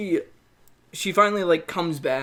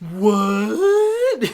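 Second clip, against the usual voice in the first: mock outraged what; 6 semitones higher, 8 dB louder than usual. Mock outrage after bad joke.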